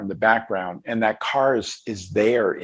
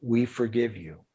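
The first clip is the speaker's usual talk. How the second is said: softly spoken, gentle retold kindness; kindly and sweetly; 5 dB quieter than usual. Young girl forgiving a former soldier, kindly and sweetly. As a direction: retell it tenderly, a little hushed. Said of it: "so kindly and sweetly".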